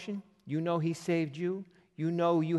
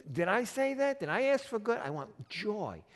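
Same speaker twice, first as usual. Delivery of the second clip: mock incredulous; 6 semitones higher than usual. God voiced answering believer.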